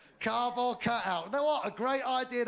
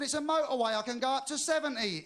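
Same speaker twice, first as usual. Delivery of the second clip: raised pitch, arguing back; indignant protest; 5 semitones higher than usual. Acted. Driver stopped for speeding to policeman, protesting. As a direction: play a driver protesting his innocence.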